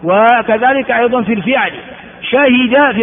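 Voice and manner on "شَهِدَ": شهد as shahida; original verb form. Shown as a demonstration. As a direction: say شهد slowly, a then i. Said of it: "فعل ماضي". (شهد بفتح الشين وكسر الهاء)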